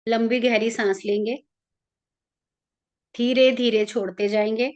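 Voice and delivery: calm, even meditation guide with long pauses; guided meditation. Real, not acted. Leading listeners into an Ekadashi meditation for their ancestors, calm guided-meditation voice.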